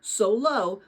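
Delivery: steady read-aloud storytelling voice; reading a novel aloud to former students; story narration. Acted. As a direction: read the chapter to the kids like a teacher.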